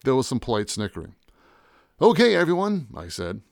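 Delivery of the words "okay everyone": high, louder call to the crowd; announcer voice. Acted. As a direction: gather the room like a host. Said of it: "In my best announcer voice".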